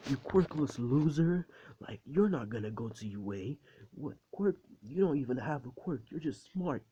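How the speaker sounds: mock him in a high jeering voice; jeering classmates. Classmates mocking quirkless Izuku.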